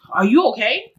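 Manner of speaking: mildly concerned check-in; sincere concern. Shown as a demonstration. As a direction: ask it for real, without sarcasm. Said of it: "like, for real".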